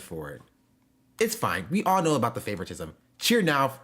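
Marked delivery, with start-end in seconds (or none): 3.2-3.8 dramatic villain reading; anime villain. Retold or imitated. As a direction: read it like a grand villain. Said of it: "talk like an anime villain".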